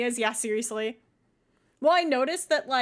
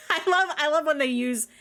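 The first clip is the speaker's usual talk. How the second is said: laughing; 4 semitones higher, 7 dB louder than usual. Real, not acted. Laughing at game dialogue.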